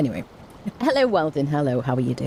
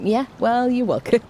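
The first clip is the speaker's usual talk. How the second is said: smug, higher-pitched reply; mock confidence; 7 semitones higher than usual. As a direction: play graciously taking the credit. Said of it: "Say it with confidence".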